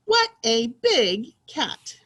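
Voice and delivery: slow, loud, emphatic exclamation; excited reading. Shown as a demonstration. Teacher rereading the cat sentence for pupils, excited. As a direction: stretch it out with excitement. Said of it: "say it in an excited way".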